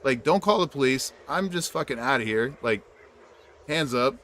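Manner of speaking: high, fast panicky backing off; panicked retreat. Retold or imitated. Fleeing an ex-cop chasing her, panicked. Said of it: "And I'm like".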